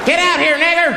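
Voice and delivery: mob shout. Acted. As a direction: bellow at the man inside. Mob outside the house yelling.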